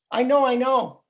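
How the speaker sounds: put-on high, insistent kid's protest; protesting grandchild. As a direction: whine it like an impatient grandson. Child protesting to doting grandfather.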